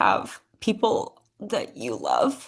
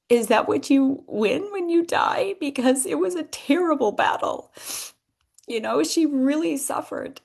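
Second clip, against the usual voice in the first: higher, real grief pushing up through the questions; real emotion rising while remembering mom; emotional; 6 semitones higher than usual. Real, not acted. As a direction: ask it as if it still hurts. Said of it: "I don't know why I'm so emotional today".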